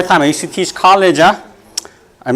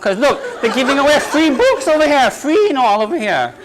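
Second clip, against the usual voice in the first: mock commercial; 8 semitones higher than usual. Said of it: "I gotta make commercial".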